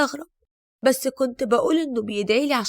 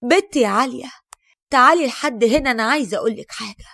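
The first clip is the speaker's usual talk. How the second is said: calling out; 7 dB louder than usual. Acted. Calling daughter-in-law across room.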